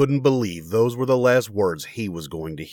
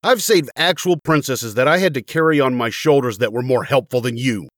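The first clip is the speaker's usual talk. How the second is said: exasperated complaint; 3 semitones higher than usual. Acted. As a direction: rail at a useless companion. Murdoch rants at the useless sword.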